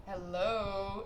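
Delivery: soft, fading hello; a tentative mock call at the window; quiet call. Knocking on sleeping driver's window.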